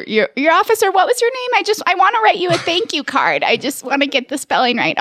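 fish for his name as a pretend old woman; old lady. Old lady wants officer's name for thank-you card, put-on voice. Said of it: "like you're an old lady".

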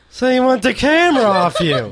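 high, loud mock disbelief; lightly voiced surprised woman; mock incredulous woman. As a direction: ham up her surprise. Mimicking the woman's reply.

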